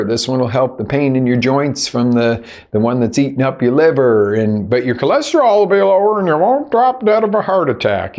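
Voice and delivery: mock doctor handing out prescriptions, sarcastic; a lightly voiced doctor, sarcastic rattle. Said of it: "I'm being really sarcastic".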